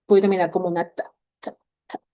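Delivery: ta said crisply, the last two ta whispered; teacher demo of "ta, ta"; demonstrating the t sound. Shown as a demonstration. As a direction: model the ending sound "ta" for students. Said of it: "con el sonido de la ta".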